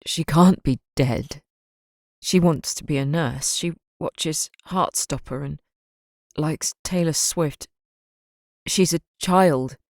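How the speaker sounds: slow, halting, barely getting words out; a trembling father in denial, slow; shaking with grief. Acted. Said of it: "His entire body was shaking".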